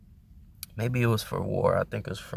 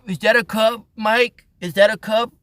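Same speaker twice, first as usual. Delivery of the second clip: silly voiced Johnny; 9 semitones higher, 5 dB louder than usual. Acted dialogue Johnny and Mike.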